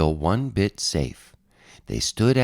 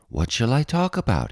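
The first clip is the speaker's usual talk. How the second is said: a touch of eagerness, lifted a little higher; eager; 5 semitones higher than usual. Acted. Little rabbit eagerly asks the big animals, mildly excited. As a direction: ask it like a keen little rabbit. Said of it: "he asked eagerly".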